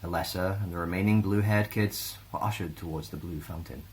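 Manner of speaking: ordinary delivery, nothing marked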